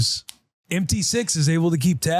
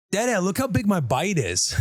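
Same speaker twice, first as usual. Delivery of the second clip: put-on higher, proud little-girl call; toddler voice; 5 semitones higher than usual. Daughter proudly showing dad her big bite, higher. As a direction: show off like a kid with a huge bite. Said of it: "then she just goes".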